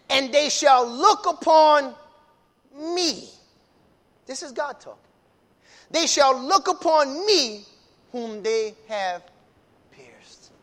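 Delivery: slow, weighty preacher quoting God; solemn scripture proclamation. Acted. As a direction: proclaim God's words slowly. Preacher reads God's words.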